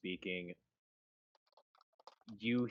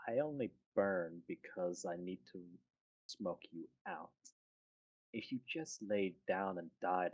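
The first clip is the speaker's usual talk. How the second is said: cold villain voice; 2 semitones lower, 6 dB quieter than usual. Acted. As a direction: purr the contempt like a polite villain.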